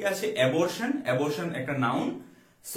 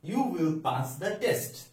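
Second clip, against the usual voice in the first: slow dictation; 2 semitones higher, much slower than usual. Shown as a demonstration. Teacher reads example sentence slowly.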